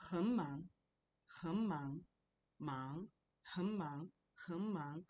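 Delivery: "hen mang" with "hen" run straight into a rising "mang"; conversational tone change. Shown as a demonstration. Teacher showing the same thing with hen, tone demonstration. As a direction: repeat "hen mang" as separate, careful tone models. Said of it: "The same thing with hen".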